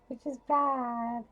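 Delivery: high, slow laughing admission. Real, not acted.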